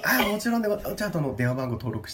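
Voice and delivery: high, overly polite clerk; polite staff voice. Pretend. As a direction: apologise like a prim receptionist. Staff role continues.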